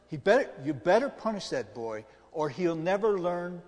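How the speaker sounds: acted scolding, slowing for emphasis; stern admonishing friend. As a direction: lay down the law as the indignant friend. Acting an indignant friend advising father.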